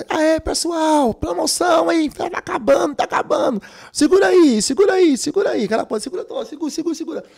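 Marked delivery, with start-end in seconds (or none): 0.1-5.6 high loud vendor's shout. Retold or imitated. Vendor shouting, candy running out. 6.0-7.2 hurried calling. Retold or imitated. Vendor calling, softer.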